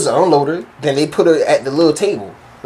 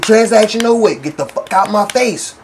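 fed-up dismissal; 4 semitones higher than usual. Retold or imitated. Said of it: "I did like this".

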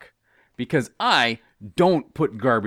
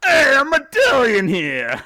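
much higher, loud, slow caricature Italian; shouted mock Italian; 10 dB louder, slower than usual. Co-host playing an offended waiter, shouted mock Italian accent. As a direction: bellow it like an offended Italian cartoon.

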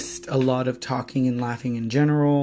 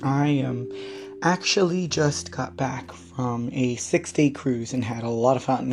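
hoarse, tired voice; weak raspy voice. Real, not acted. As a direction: talk with a voice that's giving out. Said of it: "my voice weakens like this".

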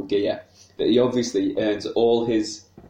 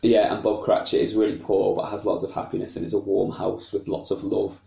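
eating chocolate while talking; mouth full; 3 semitones higher than usual. Real, not acted. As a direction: talk through a mouthful. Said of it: "Sorry, I'm eating some chocolate".

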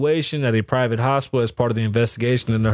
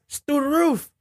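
mock shocked squeal. High-pitched exclaim on gas.

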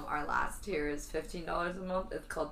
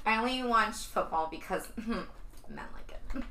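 put-on airy, valley-girl sorority voice; 4 semitones higher than usual. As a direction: play it like a ditzy sorority girl. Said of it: "that was my impression of a sorority girl talking".

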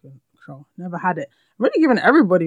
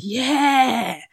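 higher, drawn-out approving yes; delighted yeah; 6 semitones higher than usual. Retold or imitated. Student hearing her name said right, delighted. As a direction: stretch it out in approval. Retelling delight at correct pronunciation.

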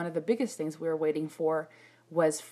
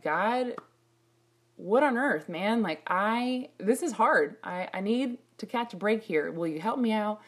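complaining to God; 4 semitones higher, 3 dB louder than usual. Retold or imitated. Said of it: "looking up at the sky like".

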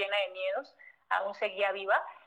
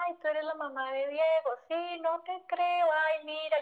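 amazed; 6 semitones higher than usual. Retold or imitated. Greeting the client's mother, amazed.

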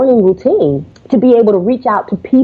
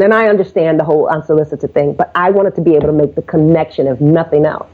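frank and sincere; 3 semitones lower than usual. Retold or imitated. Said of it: "be frank with her".

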